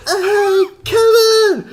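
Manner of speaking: high-pitched shout calling to a friend; yelling from the audience; re-enacted yell. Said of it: "apparently I was yelling".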